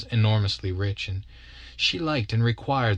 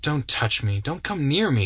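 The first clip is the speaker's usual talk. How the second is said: sharp mock-angry refusal, rising higher; 5 semitones higher than usual. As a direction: push him away with words. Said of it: "she returned angrily".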